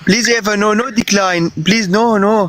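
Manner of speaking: begging through real tears; crying pleas. Real, not acted. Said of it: "Hey, stop crying".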